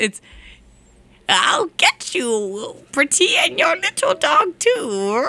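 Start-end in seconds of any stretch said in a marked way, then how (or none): 1.3-5.3 lightly voiced wicked witch. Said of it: "evil laughing contest".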